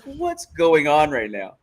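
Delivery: slow, drawn-out mock confusion; mock bewilderment. Imagining being the fighter in there, mock bewilderment. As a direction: stretch it out, lightly baffled. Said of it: "I'd be like".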